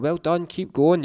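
high, slow, loud encouragement; spectators cheering. Retold or imitated. People outside their houses cheering runners, loud and slow. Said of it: "clapping, going".

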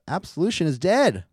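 lightly voiced Paige, firm and final; Paige's cold declaration. Host voicing Paige ending Absolution, put-on declaration. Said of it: "and Paige says".

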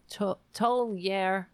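Tulare said slowly as "tool-YAIR"; stumble, then sound out Tulare as "tohl-YAIR"; tentative pronunciation. Real, not acted. Host sounding out the county in the article, Tulare as "tohl-YAIR".

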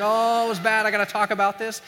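needing to unload, acted; upset. Patient venting to friends after the doctor, upset.

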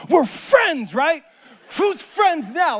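high, loud, gloating taunt; gleeful taunt. Retold or imitated. Little brother taunting the bullies from the background, gleeful. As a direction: crow it from the back of the crowd. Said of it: "I'm getting so excited".

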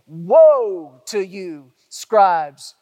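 slow, loud woe to their face; woe pronounced. Retold or imitated. Preacher voicing Jesus rebuking the Pharisees, slow and loud. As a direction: thunder it out slowly, face to face. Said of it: "he says to them over and over, face to face".

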